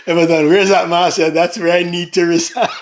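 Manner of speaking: amused, laughter spilling into the words; laughing. Real, not acted. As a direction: say it while cracking up. Still laughing at Everton's comment.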